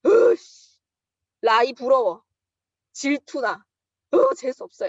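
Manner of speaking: loud, high-pitched mock whining; acting out envious grumbling to a confidant; jealous venting. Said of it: "집에 와가지고 맨날 기룡 사장님한테".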